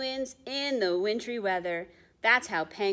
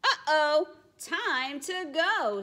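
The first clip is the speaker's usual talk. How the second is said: fish's quip; 7 semitones higher, 5 dB louder, slower than usual. Acted. Fish escaping in picture book.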